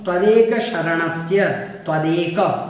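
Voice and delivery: त्वदेक slow with a clear त्व; careful pronunciation. Shown as a demonstration. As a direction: say त्वदेक shaping the त्व cluster. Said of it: "उसके बाद है त्वदेक".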